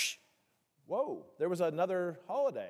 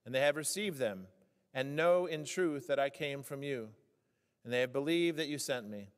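scripture reading; 2 semitones lower than usual. Acted. Pastor reading the gospel to the congregation, measured and solemn. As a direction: read the Word with solemn weight.

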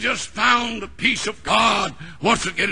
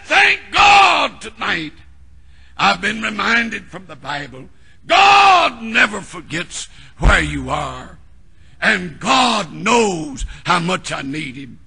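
joyful preached shout; 5 dB louder than usual. Acted. Preacher voicing the woman's thanks at full force.

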